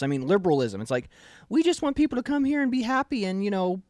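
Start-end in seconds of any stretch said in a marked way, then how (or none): 1.5-3.8 high, airy mock of a naive liberal; lightly voiced sarcastic impression of a liberal; a hint of a sneering liberal parody. Mocking liberals' voice.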